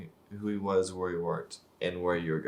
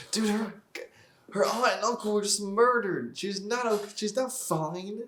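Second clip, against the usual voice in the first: indignant protest; 11 semitones higher than usual. Real, not acted. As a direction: plead with the screen that she's clearly not fine. Indignant at the character's line.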